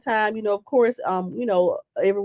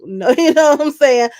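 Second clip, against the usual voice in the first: laughing; 6 semitones higher, 8 dB louder than usual. Real, not acted. Laughs on the words.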